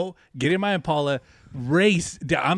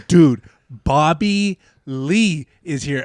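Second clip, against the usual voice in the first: urgent hype; 3 semitones higher, 8 dB louder, much slower than usual. Retold or imitated. Retelling friend's urgent phone call.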